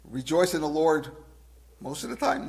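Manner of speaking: wrong version to be corrected; mock watered-down quote. Shown as a demonstration.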